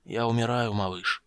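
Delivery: put-on a dying old man's weak voice; faint and frail, barely holding on. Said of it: "слабым голосом выговорил гном".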